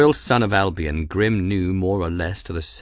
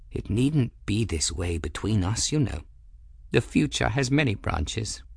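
put-on softer, tender plea between old friends; gentle; 2 semitones higher, 4 dB quieter than usual. Old man gently to his former pupil, soft and tender. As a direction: let it fall soft, almost pleading. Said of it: "said gently".

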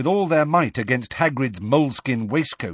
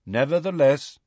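calm; 5 semitones higher than usual. Acted. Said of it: "said Megorian calmly".

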